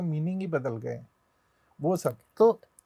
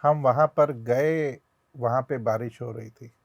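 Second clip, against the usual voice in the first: bookish hindi; 4 semitones lower than usual. Shown as a demonstration. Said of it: "Hindi बड़ी bookish होती है".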